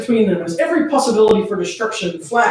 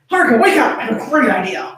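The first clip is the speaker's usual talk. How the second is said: excited wake-up call; 3 semitones higher than usual. Acted. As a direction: bounce in with the idea. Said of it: "The excited younger blonde".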